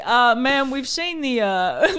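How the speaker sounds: put-on Texan accent. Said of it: "from Texas".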